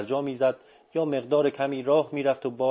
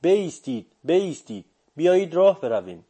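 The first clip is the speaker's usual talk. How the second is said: narrator's contained shout, higher and louder; crazed yell; 5 semitones higher, 5 dB louder than usual. A narrator's reading. Apprentice yelling at his running teacher to stop, contained crazed shout. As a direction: call out urgently, each phrase falling. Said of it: "مثل دیوانه ها فریاد زدم".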